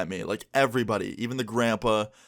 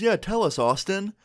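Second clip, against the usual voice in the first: higher-pitched imitation of a prodding grandpa; egging-on grandpa; 9 semitones higher, slower than usual. Girlfriend's grandpa prods him at the dinner table, coaxing. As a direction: voice the grandpa's high, coaxing demand.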